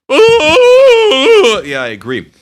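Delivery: very high, loud squeaky puppet ooh; a silly high ghost Kermit voice. Pretend.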